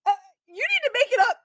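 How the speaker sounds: a very high, loud wailing sob; fake crying kid. Kid fake-sobs loudly at Ace in the chili line, very high. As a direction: bawl like a child making a scene. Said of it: "finally he is in tears".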